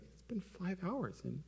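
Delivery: husband complaining to his wife, pouty and whiny; pouty complaint. Retold or imitated. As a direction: sulk like a kid denied a hug. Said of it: "I was like".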